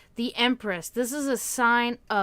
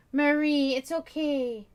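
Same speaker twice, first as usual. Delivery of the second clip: higher, louder call to the cat; 5 semitones higher, 3 dB louder, slower than usual. Real, not acted. Owner calling her cat, high sing-song. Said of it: "That's the only way I can talk to my cats".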